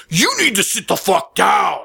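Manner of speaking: mock shouted order; snapped. Server orders the heckler to sit, mock shout. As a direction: imitate a server suddenly losing it at a heckler. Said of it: "but it snapped".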